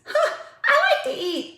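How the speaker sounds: laughing as she owns up to loving food; high, slowed giggly confession. Real, not acted. Vlogger laughing to viewers while admitting she loves eating.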